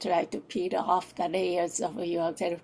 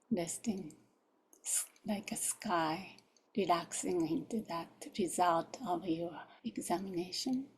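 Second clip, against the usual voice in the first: guided meditation. Real, not acted. Closes the guided examination.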